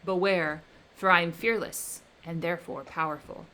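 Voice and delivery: loud, menacing creature; the creature threatening his maker, loud; vengeful threat. Acted. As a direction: vow revenge with rising menace. Creature threatens Victor with revenge.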